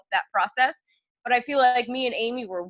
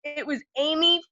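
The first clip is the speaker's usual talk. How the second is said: much louder, higher, outraged; mock the RD pulling rank, loudly; loud, high, hammed-up indignation; indignant announcement; 7 semitones higher, 8 dB louder than usual. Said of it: "She go".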